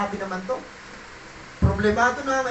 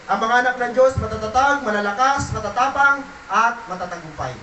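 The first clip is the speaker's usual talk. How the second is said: rising declaration; 4 dB louder than usual. Real, not acted. Preacher building declaration.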